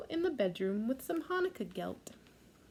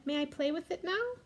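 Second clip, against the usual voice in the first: put-on eager little girl; 7 semitones higher than usual. Rachel begging to play.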